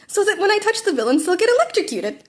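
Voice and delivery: high, bright-voiced glee; proud and delighted; happy. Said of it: "Midoriya said happily".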